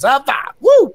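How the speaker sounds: a hammed-up victory woo; mock cheer. The Masters high fiving each other, a hammed-up whoop.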